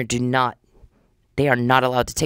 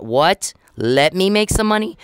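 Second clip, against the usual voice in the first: higher, disbelieving question, retold; incredulous retort; 5 semitones higher, slower than usual. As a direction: throw it back as an incredulous question. Retelling her reaction to dancer's jab.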